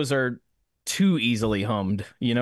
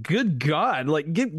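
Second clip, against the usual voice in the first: rising higher in mock exasperation; a hammed-up plea to wait; 6 semitones higher than usual. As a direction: beg for a second, pitch climbing higher. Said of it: "I was just like".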